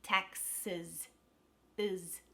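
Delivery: TAXES pulled apart, ending in a reduced uhz; careful TAXES with an unstressed schwa at the end. Shown as a demonstration. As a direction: separate TAXES, then isolate its weak ending. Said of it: "becomes a schwa sound".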